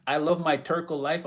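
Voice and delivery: lightly imitated Jamaican accent; a hint of Jamaican lilt. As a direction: echo him with a Jamaican "turkle". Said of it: "in the Jamaican accent".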